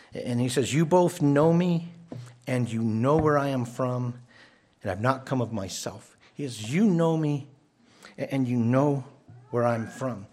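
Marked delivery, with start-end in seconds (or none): 0.7-6.2 loud cry. Retold or imitated. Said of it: "this is like a loud cry". 6.7-10.3 loud cry. Retold or imitated. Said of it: "this is like a loud cry".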